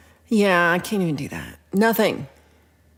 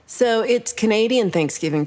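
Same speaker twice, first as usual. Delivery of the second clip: Canadian Thanksgiving said higher and louder; excited announcement; 4 semitones higher, 4 dB louder than usual. Shown as a demonstration. Telling Chad it's Canadian Thanksgiving, excitedly. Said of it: "That's how I said it".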